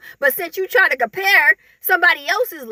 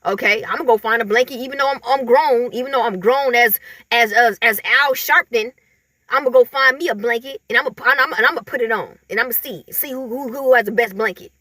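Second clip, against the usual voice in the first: lower, petty grown-up voice hurrying along; lower mocking envious relative; 4 semitones lower than usual. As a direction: voice the jealous adult plotting over a blanket, low and quick. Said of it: "They like".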